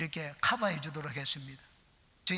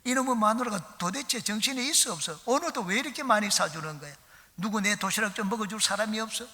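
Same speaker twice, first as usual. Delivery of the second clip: louder, higher fake-grumpy shout at the wife's lunch; blustering shout; 5 semitones higher, 3 dB louder than usual. Supervisor shouting to the workers, a mock angry shout. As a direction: bluster loudly about the big lunchbox. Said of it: "버럭 소리를 질러냈습니다".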